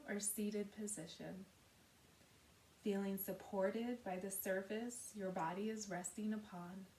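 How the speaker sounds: measured, unhurried meditation guidance with long pauses; guided meditation. Acted. Yoga teacher settling listeners into Yoga Nidra, calm guided meditation. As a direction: guide gently, softening at the ends of phrases.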